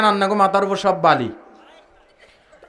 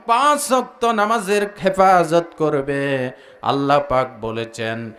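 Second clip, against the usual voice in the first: sing-song preaching; 7 semitones lower than usual. Acted. Preacher listing qualities for the congregation, chanted preaching. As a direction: intone it on a low, level note.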